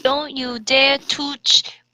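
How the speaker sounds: slow, hushed dramatic warning; breathy whisper on Twiya; dramatic fanfic line. Acted. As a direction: read it like a melodramatic heroine. Reading fanfic dialogue dramatically.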